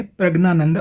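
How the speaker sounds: प्रज्ञानंद with hard g before n; southern pronunciation. Shown as a demonstration. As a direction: say प्रज्ञानंद as "prag-naanand". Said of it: "प्रज्ञानंद बोलेंगे".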